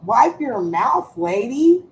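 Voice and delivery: slow, then a high rising "lady"; teasing. Real, not acted. Telling her daughter to wipe her mouth, teasing. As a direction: drag it out to tease.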